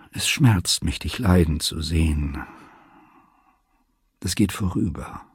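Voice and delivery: gentle, softening consolation; leise und sanft. A narrator's reading. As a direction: console tenderly, letting the voice sink. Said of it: "Dann sagte er leise und sanft". (sanft tröstend, leiser werdend)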